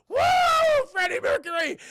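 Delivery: high, loud hollered boast; triumphant whoop. Retold or imitated. Bully whoops after smashing cup.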